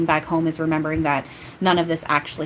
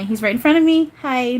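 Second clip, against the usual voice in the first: much higher and louder, breathless with awe; overwhelmed excitement; 7 semitones higher, 5 dB louder than usual. Real, not acted. Medium sensing Yeshua appear before her, awestruck and excited. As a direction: blurt it out, stunned he's there.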